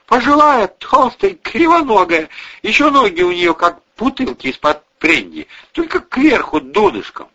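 high, loud mocking voice; scornful army man, pitched well up; mocking neighbour description. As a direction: sneer the woman's looks out.

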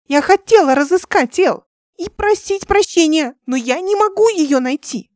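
high, loud, desperate cry; distraught yelling. A narrator's reading. Ника в отчаянии кричит. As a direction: Nika yelling that she cannot find El. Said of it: "что ты так орёшь".

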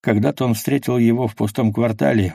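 plain reading voice

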